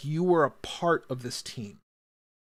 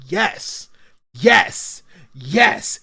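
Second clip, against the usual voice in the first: excited yes; 6 semitones higher, 10 dB louder, much slower than usual. Real, not acted. Cheering about the show.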